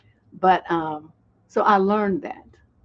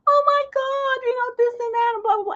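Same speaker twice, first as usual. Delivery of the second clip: very high-pitched mock squeal; squeaky and high. Imitating how most women talk, squeaky and high. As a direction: imitate a whiny little kid's squeaky voice. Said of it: "most women talk all squeaky and high".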